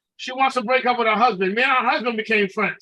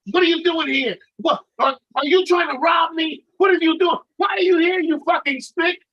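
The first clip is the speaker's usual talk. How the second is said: raised-pitch mock outrage; imitated angry confrontation; 4 semitones higher than usual. Woman challenging a court server at her door, mock angry. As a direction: fire off indignant questions, imitating an angry woman.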